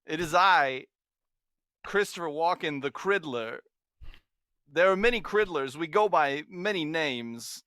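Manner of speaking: lightly voiced Walken with halting breaks; Christopher Walken. Introducing the Criddler to listeners, light Walken impression. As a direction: pause before each grand introduction. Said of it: "if that impression sounds off".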